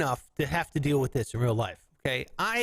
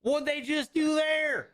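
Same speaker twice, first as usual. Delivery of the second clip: put-on higher, slow Southern country kid; Southern child; 8 semitones higher, slower than usual. Asking Pa about a wink, Southern boy accent. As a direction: ask Pa in a Southern twang. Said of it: "I have a Southern accent".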